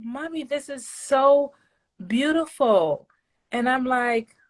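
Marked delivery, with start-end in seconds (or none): 0.0-3.1 put-on higher, childlike Mommy, this is so beautiful; little kid voice. Mom imitating her little kids praising her, childlike. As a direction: mimic her small children, slow and sweet. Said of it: "Their little, their little".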